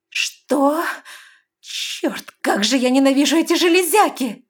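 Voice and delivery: high, loud furious outburst; angry growl. A narrator's reading. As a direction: snarl it in rage. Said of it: "прорычала Лестра".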